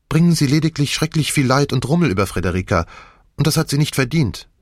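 a hint of a pleading figure; lightly voiced Nick, pleading. Nick argues for silence to Poirot, lightly pleading.

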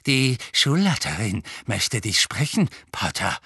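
gloating caretaker in a put-on voice; malicious grin. A narrator's reading. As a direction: relish summoning the culprit, grinning nastily. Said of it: "mit einem boshaften Grinsen".

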